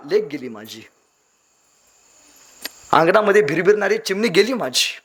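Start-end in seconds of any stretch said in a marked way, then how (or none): 0.1-0.8 father's lament. Retold or imitated. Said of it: "ढसा ढसा रडतो".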